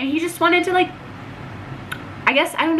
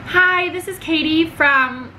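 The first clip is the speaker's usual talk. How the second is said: retold phone greeting; 5 semitones higher, slower than usual. Acts out her phone greeting.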